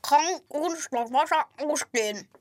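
words gargled through water; while gargling. Shown as a demonstration. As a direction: gurgle the question with water. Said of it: "Bitte mach noch mal". (gegurgelte Frage)

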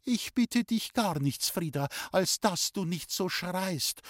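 high, slow, measured plea; exasperated mother. A narrator's reading. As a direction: ask the shouter firmly to stop. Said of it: "hat meine Mutter gesagt". (hohe Mutterstimme, langsam und mahnend)

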